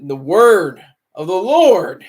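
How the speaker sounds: slow, loud swells on Word and Lord; booming churchy emphasis; mock-preacher emphasis. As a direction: draw it out like a preacher. Mock-solemn naming of the sermon.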